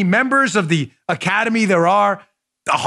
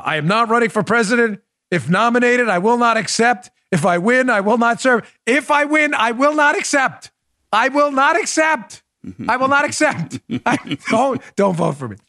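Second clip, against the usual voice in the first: Lyndon Johnson; 4 semitones higher than usual. Retold or imitated. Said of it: "what was Lyndon Johnson".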